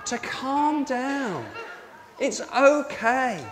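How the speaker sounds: slow, drawn-out reassurance; calming. Retold or imitated. Angel reassuring the alarmed women, calmly and slowly. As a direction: ease them down slowly, word by word. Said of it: "tells them not to be alarmed".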